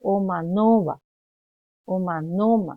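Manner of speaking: Omanova, Omanoma with "no" stretched and pushed; loaded stress. Shown as a demonstration. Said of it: "ahí le estoy cargando yo".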